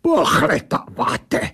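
creature's indignant echo. A narrator's reading. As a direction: stretch "Pohledáváte" out in an affronted creature voice. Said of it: "vybavla ta věc". (táhlé, dotčené „Pohledáváte“ s německým přízvukem)

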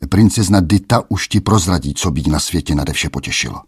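a hint of a menacing king; mocking king. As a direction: send the lad off with a sneer. King sends the boy off.

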